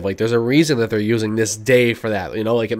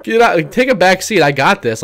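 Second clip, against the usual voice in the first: imitating an impatient, cocky pilot; mock exasperation, brushing the others off; exasperated retort; 3 semitones higher than usual. Podcast host mimics a pilot telling off teammates, exasperated. Acts out character taking charge.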